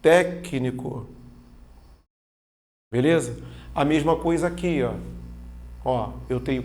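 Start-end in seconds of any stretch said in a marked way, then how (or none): 0.0-1.1 "técnico" slowly broken as téc-ni-co; syllable by syllable. Shown as a demonstration. Teacher showing the separation, slow syllable by syllable. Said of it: "Então, ó".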